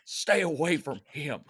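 playful British scolding; hammed-up British accent. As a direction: shoo the stable boy off in a put-on British accent. Continues the British accent bit.

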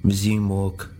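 put-on a curt, stern German-accented order; clipped stern order from behind. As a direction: command him forward without warmth. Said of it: "Sophia said sternly".

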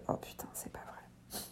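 slow stunned whisper; shocked whisper. Retold or imitated. Woman told she is fully dilated, slow stunned whisper. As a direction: breathe it out in disbelief.

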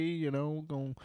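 mock Southern good old boy; Southern accent. Riffing about barbarians throwing axes, mock Southern accent. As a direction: lay on a playful stereotypical Southern accent. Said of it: "the stupid Southern bullshit".

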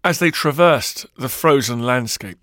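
ordinary delivery, nothing marked

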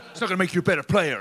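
giggling out his line, mock serious; laughing while quoting. Retelling the gym story to teammates, laughing through the quote. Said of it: "he goes".

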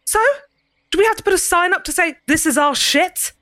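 soft Cockney lecture, lightly voiced; a light Cockney dressing-down. Ceridwen lecturing the prisoner, soft Cockney. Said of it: "A soft Cockney accent".

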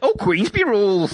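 put-on high jokey old-fashioned fighter; old-school bruiser. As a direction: square up like a Victorian gent. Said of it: "I want, like".

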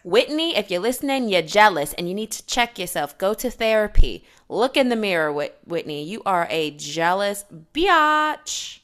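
bossy auntie scolding, lightly done. Acted. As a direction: scold her like a pushy matchmaker auntie. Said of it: "you gave auntie voice there".

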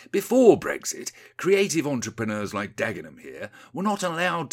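condescending politician. Acted. Rees-Mogg explaining the deal to Windy, condescending. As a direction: patronise them, building to a high, loud triumph.

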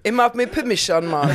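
a light Jamaican accent, lightly voiced; a hint of a Jamaican accent, playful; a joking, mild Jamaican accent. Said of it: "not sure you can do the accent".

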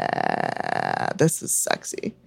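low breathy sultry murmur; hushed mock-seductive aside; imagined fan. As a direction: purr it like a swooning fan. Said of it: "they're like".

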